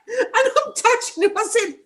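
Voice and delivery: high, fast, laughing; real laughter. Real, not acted. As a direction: rush it out through laughter. Laughing while retelling.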